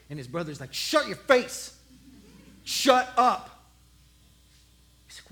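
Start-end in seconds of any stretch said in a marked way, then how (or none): 0.7-3.7 slow, firm scolding; annoyed brother. Acted. Big brother silences little David, slow and firm. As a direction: shut him down slowly and firmly.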